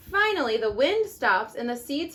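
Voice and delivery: gentle storybook read-aloud; reading to children. Acted. Mom reading The Tiny Seed to her kids, storybook voice.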